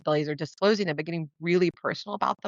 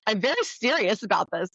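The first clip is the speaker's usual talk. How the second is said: mock offended man; 4 semitones higher than usual. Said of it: "And he goes".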